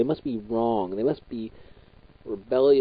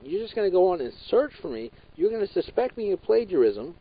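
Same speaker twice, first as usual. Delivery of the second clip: retold outburst at teacher; 5 semitones higher than usual. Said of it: "I said, I'm like".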